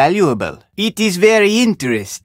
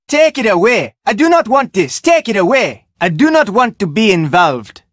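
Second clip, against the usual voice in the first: higher, urgent take it away; panicked refusal, pitched up; alarmed cry; 4 semitones higher than usual. Acted. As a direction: push the thing away in alarm. Character recoils from object.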